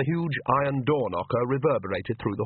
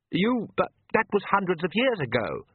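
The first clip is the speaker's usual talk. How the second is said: higher, strained disbelief; managed protest; 8 semitones higher than usual. Acted. Oates protesting to the Count, higher and strained. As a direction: force the words out in shock. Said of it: "Oates managed".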